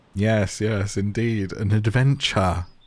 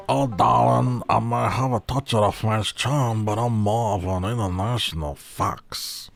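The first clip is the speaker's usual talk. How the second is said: put-on French-charm character. Angelina answers whether she is French, affected put-on voice. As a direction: play a self-styled international fox. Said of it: "I don't wanna do that voice".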